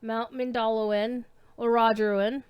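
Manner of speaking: Mindalluin and Orodruin each stressed on the second syllable. Shown as a demonstration. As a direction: lean on DAL in Mindalluin, ROD in Orodruin. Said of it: "emphasis on the second syllable".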